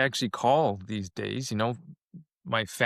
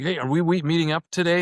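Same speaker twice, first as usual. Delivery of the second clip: mock aggressive; 5 semitones higher, 4 dB louder, faster than usual. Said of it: "he's aggressive".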